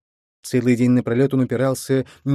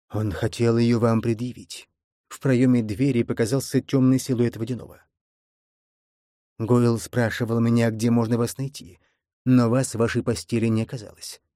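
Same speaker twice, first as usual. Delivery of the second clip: gurgling voice. Acted. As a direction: speak as if through water. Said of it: "булькающим голосом Водяного".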